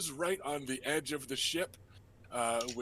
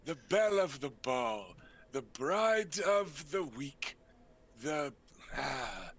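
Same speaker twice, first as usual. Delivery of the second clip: flamboyant uncle. Acted. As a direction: sweep it out like a vain dandy.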